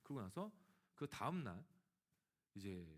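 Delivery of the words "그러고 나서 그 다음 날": ordinary delivery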